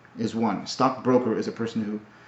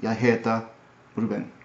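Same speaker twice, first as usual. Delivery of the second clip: Swedish accent. Shown as a demonstration. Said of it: "Swedish, I think, is more like".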